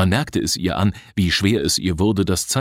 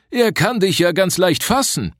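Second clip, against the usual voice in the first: anxious warning; 11 semitones higher than usual. A narrator's reading. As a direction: warn him urgently, voice raised high. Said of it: "warnte der wohlmeinende Alte". (hohe, langsame, besorgte Warnung eines alten Mannes)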